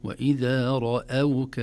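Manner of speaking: slow وإذا رأوك with heavy ra, thin hamza; don't let the ra darken the hamza in رأوك; light hamza. Shown as a demonstration. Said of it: "الراء قد تؤثر عليها".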